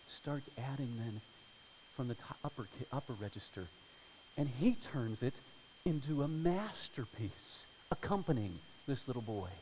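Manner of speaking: normal talking voice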